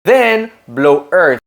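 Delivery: "earth" ending on a long blown TH; "Then blow earth" with the air pushed out between the teeth; TH demo. Shown as a demonstration. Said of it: "put our tongue between our teeth like this".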